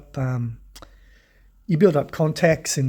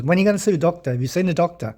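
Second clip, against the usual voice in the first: slightly raised voice of a pestering wife; imitated nagging; 3 semitones higher, much faster than usual. Husband imitating his wife a week later, mildly nagging. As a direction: imitate a wife still on your back. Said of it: "that week passes and she says".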